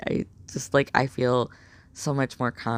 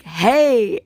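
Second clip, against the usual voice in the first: bright loud called-out greeting, higher; excited hey; 10 semitones higher, 9 dB louder than usual. Retold or imitated. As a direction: call it out, surprised and happy. Greeting coworker in the hall.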